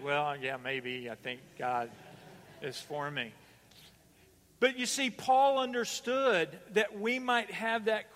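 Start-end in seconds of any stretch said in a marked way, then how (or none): 0.0-3.3 doubtful mock reply. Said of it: "Some of you said it like".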